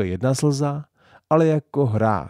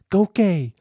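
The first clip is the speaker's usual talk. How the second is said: reverently; 9 semitones higher, 5 dB louder than usual. A narrator's reading. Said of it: "řekla maminka uctivě".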